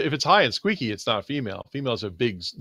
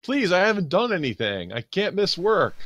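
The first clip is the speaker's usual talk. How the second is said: pleading; 4 semitones higher than usual. Acted. Player's character pleads with cop.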